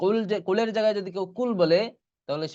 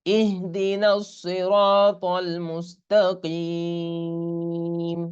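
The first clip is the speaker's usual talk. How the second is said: slow, drawn-out Quranic chant with long vowels; Quran recitation; much slower than usual. Shown as a demonstration. Teacher models the verse for students, slow tajweed chant. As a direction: chant it slowly like tilawat. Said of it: "teacher recites Fatiha verse".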